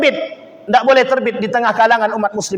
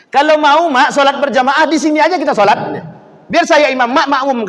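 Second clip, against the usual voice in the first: put-on bargaining child; 7 semitones higher, 4 dB louder than usual. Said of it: "kata dia".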